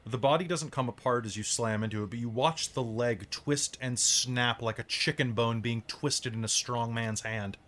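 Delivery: slow, deliberate scene-setting; game master narration. A narrator's reading. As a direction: draw out the gruesome description. Game master describes the blow.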